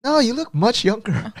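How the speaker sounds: high-pitched mock-sweet reassurance; retold flattery. Husband retelling how he answered wife about old lady, high-pitched flattery.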